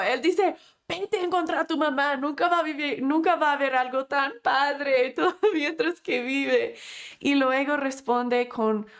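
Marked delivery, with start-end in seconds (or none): 0.9-6.7 quick, higher and laughing, full of glee; joyful retelling. Retold or imitated. Retelling Edison's words to his son, gleeful and laughing. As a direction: tell it as if it were wonderful news. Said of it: "Con gozo".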